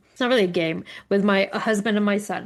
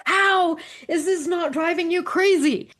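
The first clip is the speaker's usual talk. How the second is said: high-pitched, exasperated retold plea; worked-up, higher-pitched retold question; 8 semitones higher than usual. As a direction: laugh through mock disbelief at the family. Retelling her exasperation at family.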